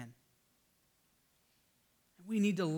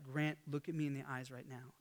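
low, quiet, serious dad; really serious; 5 semitones lower, 10 dB quieter than usual. Retold or imitated. Dad to his defiant two-year-old on his lap, really serious. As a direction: lower and soften the voice to command attention. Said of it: "I got really serious with him".

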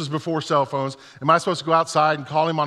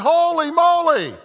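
amazed; 12 semitones higher, 5 dB louder, slower than usual. Retold or imitated. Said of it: "I'm going like".

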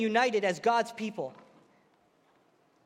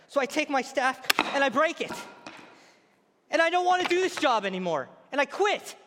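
fed-up rant; 3 semitones higher than usual. Acted. Zechariah quitting, voiced rant.

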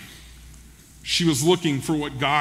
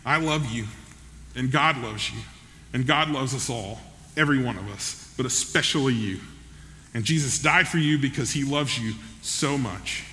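gently voiced, slightly lowered and softened; unhurried, quietly sincere retelling; tender reassurance; 3 semitones lower, 4 dB quieter than usual. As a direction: act out a grandmother's heartfelt assurance. Grandmother tenderly addresses the convict.

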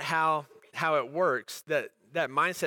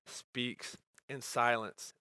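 hushed, slow emphasis; 4 semitones lower, 7 dB quieter, much slower than usual. Real, not acted. Preacher softens on key phrase.

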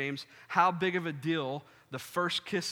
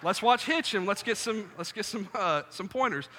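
laughing, pitched up and loud; excited laugh; 6 semitones higher, 5 dB louder than usual. Retold or imitated. Telling a friend about watching Hitch, laughing. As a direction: laugh it out eagerly.

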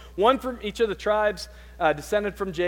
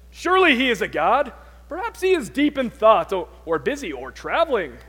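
sarcastic, raised teasing start that settles down; mocking taunt; 3 semitones higher, 5 dB louder than usual. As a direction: needle the prophets with fake sympathy. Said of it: "He said it in that type of voice".

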